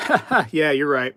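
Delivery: chuckling yes while agreeing; laughing agreement. Retold or imitated. Pawn shop owner laughing as he gives in, chuckling. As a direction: laugh it off, conceding the coin.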